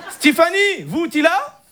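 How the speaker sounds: put-on high, comic Moroccan accent; chat-up line in thick Moroccan-accented French; Hicham. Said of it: "t'as l'accent".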